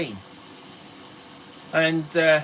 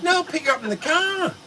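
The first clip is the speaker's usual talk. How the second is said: indignant reply; 11 semitones higher than usual. Retold or imitated. Indignant reply to her teasing.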